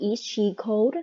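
pitch lifts up at the end of cold. Teaching the intonation of the question is she cold: rising pitch on cold. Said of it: "cold ของครูแพรเนี่ยจะเหินเสียงขึ้น".

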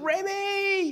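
mock very high, near top-of-voice, drawn-out panicked yell. Speaker retells how Coral called out to a little girl, retelling a near-top-of-voice shout. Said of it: "It was Remy almost at the top of her voice".

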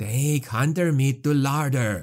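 slow, hissing rat-creature voice. Narrating the scene, voicing the gray seer Skilk as he hisses. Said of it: "the gray seer hissed".

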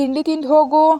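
loud calling out. A grandmother calls to her granddaughter at the gate, shouting. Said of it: "Vijayalakshmi ಕಿರ್ಚಿದ್ರು".

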